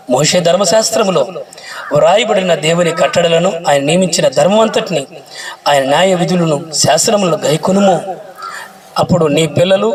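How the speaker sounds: slow, solemn Bible reading; scripture reading. Acted. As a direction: read each verse with weight, unhurried. Reads scripture aloud. (నెమ్మదిగా గంభీరంగా వాక్య పఠనం)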